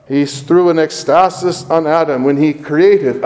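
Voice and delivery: created leaned on hard; stress on created. Shown as a demonstration. Preacher marking created for the congregation, stressing created. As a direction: underline created with the voice. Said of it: "underline that word".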